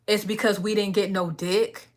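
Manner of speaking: hushed whisper; half-whispered jab about men; whispered aside. Retold or imitated. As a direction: drop to a whisper for the punchline. Mocking what guys think.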